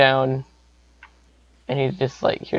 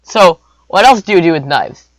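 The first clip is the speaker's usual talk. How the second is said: put-on slightly higher, pondering kid; lightly voiced pondering boy; 4 semitones higher, 4 dB louder than usual. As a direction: wonder aloud, lightly in character. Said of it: "and he's like".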